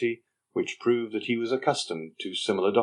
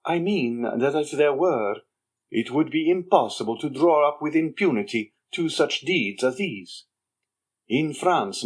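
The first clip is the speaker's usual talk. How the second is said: put-on sly young Andrea; 5 semitones higher than usual. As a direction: needle the Major with sly contempt. Andrea's sly taunting reply.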